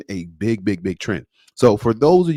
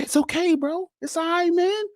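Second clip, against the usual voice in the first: much higher, sing-song comforting; mock reassurance. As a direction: soothe him in a high playful voice. Reassuring the embarrassed young man.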